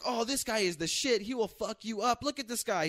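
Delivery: high-pitched imitation of gushing praise; mock hype. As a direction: imitate a guy hyping up his friend. Imitates man hyping the speaker.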